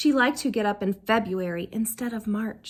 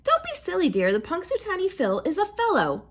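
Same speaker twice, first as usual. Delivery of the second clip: patronizing grown-up; 6 semitones higher than usual. A narrator's reading. Grown-up dismisses child.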